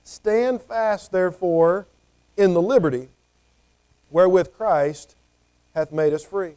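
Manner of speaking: measured reading of the verse, pausing on each phrase; scripture reading. Shown as a demonstration. Preacher reads Galatians verse to the congregation, measured and solemn. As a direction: read the verse slowly with weight. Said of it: "verse one here of Galatians says".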